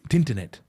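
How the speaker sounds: "Tinternet" with a t stuck on the front; Wigan dialect pronunciation. Retold or imitated. Mocking Wigan players' speech, "Tinternet" with a leading t. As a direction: say "Tinternet" for internet, Wigan style. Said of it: "They couldn't even say internet".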